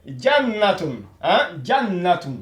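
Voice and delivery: Jannatun with the n held long and doubled, jan-natun; teacher modelling Jannatun with the n held double; doubled n demo. Shown as a demonstration. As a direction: lean on the doubled n in Jannatun, then fall. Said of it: "C'est un doublement de consonne".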